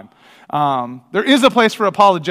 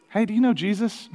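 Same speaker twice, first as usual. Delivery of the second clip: bold question; 5 semitones higher, 5 dB quieter than usual. Retold or imitated. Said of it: "if I'm feeling particularly bold".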